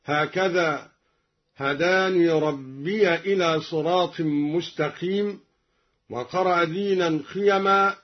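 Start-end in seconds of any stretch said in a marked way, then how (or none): 1.6-5.4 ربي with the ي voiced and carried on a clear a; ربيَ إلى in connected recitation; open ya in ربي. Shown as a demonstration. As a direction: sound ربيَ joined to إلى. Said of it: "قرأ الدوري بفتح الياء وصلا هكذا".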